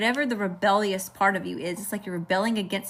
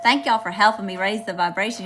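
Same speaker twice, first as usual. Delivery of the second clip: Southern twang slipping out, a bit louder; southern accent; 5 dB louder than usual. Real, not acted. Reader thanks viewers for their help, Southern accent showing. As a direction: let a Southern accent come through. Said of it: "Here comes my southern accent".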